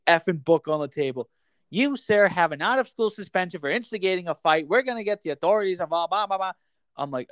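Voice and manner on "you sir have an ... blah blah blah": a hint of a stern principal, higher pitched; mock official scolding, higher and brisk at the end. Assistant principal hands out a suspension, mock stern.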